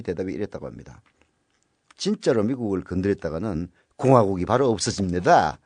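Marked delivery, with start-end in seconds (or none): 2.0-5.6 put-on light North Korean accent, barely shifted; a hint of North Korean speech. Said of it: "좀 북한 말투로 얘기했는데".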